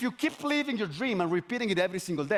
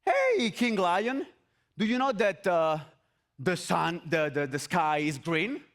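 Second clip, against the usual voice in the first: donkey; slower than usual. Acted. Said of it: "the donkey says to the lion".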